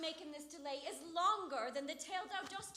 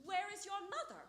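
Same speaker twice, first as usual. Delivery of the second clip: mimicking the nurse; 3 semitones higher than usual. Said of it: "How oddly thou repliest".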